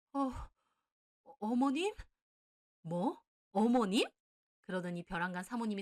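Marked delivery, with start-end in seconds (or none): 0.1-1.9 stammering shock. Acted. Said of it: "얼굴이 새하얗게 질리더군요". 2.8-4.1 loud, incredulous repeat; outraged disbelief. Acted. Mother confronting her son's girlfriend, outraged.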